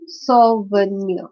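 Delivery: "souvenir" slowly as sou-ve-nir; syllable by syllable. Shown as a demonstration. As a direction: break "souvenir" into three parts. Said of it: "this is a three-syllabic word".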